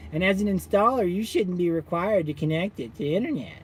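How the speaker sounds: lightly voiced condescending support guy; a hint of smug phone advice; mock tech support guy. Imitating the SMA guy again, lightly condescending. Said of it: "And then what did he say".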